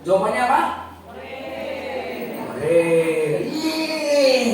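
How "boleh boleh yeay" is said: put-on high sung cheer of kids; children cheering. Pupils hearing of a school holiday, cheering.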